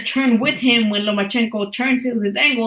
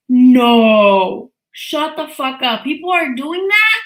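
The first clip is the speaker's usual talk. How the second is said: shocked disbelief; 4 dB louder, slower than usual. Real, not acted. Shocked by the news.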